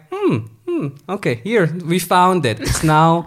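a smug British claim to the land; a lightly voiced coloniser finding the land; smug colonizer. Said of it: "the British were like".

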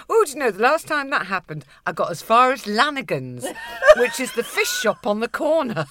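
laughing through the story; laughing aunt. Retold or imitated. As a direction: chuckle while telling it. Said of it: "And she said".

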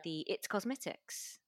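light New Zealand accent. Shown as a demonstration. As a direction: say it the way a Kiwi would. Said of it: "I said that in, um, New Zealand accent".

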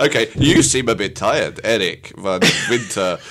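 slow sympathy. Acted. Slow sympathetic improv line.

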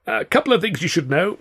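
high-pitched, anxious opener; strained, high plea; nervous stalling. A narrator's reading. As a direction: stall them before the fist lands. Freed victim stalling thugs nervously.

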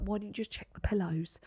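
whispered sly hint; quiet conspiratorial whisper. Retold or imitated. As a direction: whisper it as a knowing nudge. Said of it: "and I was like".

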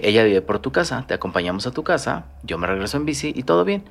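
composed, softening as it goes on; calm breakup tone. Retold or imitated. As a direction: lay out the plan gently, no drama. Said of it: "en este tono de voz".

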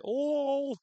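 high, loud startled oh; a sudden shocked yelp of disbelief; surprised oh. Real, not acted. Hearing a hollow reassurance, a high startled gasp.

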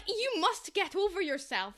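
haughty, slow mock-posh line; lightly mock a fancy snob. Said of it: "that sounds so fancy".

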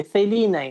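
"Feline" with a Castilian th-like C, tongue tip; Spanish pronunciation. Shown as a demonstration. Woman demonstrates her name in Spain, "Feline" with Spanish C. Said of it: "c'est le fameux C espagnol".

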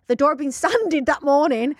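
laughing through the reading. Real, not acted.

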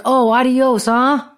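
mocking adios. Customer mocking the bartender on his way out, scornful. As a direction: throw "adios" back at her with a sneer. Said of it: "he walks out like".

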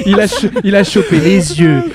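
talking through laughter; laughing. Real, not acted. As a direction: laugh while you say it. Laughs while joking about the brothers.

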